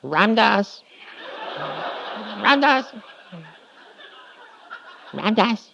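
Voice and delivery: high, drawn-out calls of the name, over and over; calling across courtyard. Retold or imitated. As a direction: call him from far off, playful.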